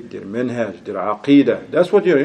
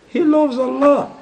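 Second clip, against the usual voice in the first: exasperated cry; 12 semitones higher than usual. Acted. Exasperated high retort.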